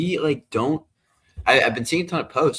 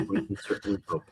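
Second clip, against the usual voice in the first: laughing; 8 dB quieter than usual. Real, not acted. Laughing repeat of own joke.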